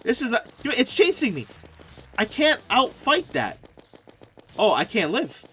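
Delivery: scared horror game streamer. Real, not acted. Boss chases him, panicking.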